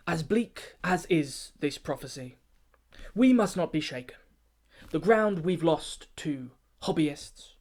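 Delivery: a lightly pompous performance-poem delivery; pompous formal address. Acted. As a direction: address the keepers like a self-important chairman. Keeper rallies the brothers.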